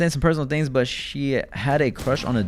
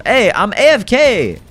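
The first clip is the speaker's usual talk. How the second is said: silly shout; 9 semitones higher, 11 dB louder, slower than usual. Pretend. Calling out to chat, put-on voice.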